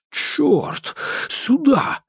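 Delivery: high, sharp urgent calls; swear, then pull her to cover; urgent shout. A narrator's reading. Shot missed, urging her to cover.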